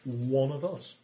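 lightly put-on cockney, slow and knowing; a hint of a sly cockney; cockney wink, understated; mock cockney. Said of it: "turned into a sort of cockney".

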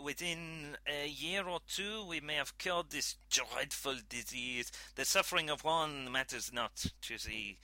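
lightly voiced French scientist, earnest; a mild French accent, measured and assured. Scientist justifying the search for a cure, light French accent.

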